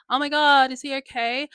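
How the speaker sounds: panicked cry. Retold or imitated. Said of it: "being like".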